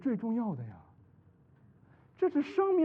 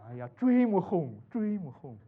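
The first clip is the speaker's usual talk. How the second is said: mock longing; slower than usual. Mocking his own past longing.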